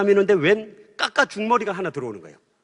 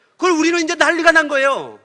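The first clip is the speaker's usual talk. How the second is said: loud, higher, worked-up retelling of the family uproar; excited telling; 6 semitones higher, 6 dB louder than usual. Retold or imitated. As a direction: tell it like the whole house is in chaos. Family panics after brother leaves. (높고 크게 흥분한 목소리로)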